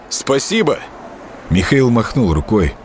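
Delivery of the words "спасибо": громко вслед, с благодарностью; крикнуть спасибо вдогонку; крикнул. A narrator's reading. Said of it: "и крикнул". (громкий окрик)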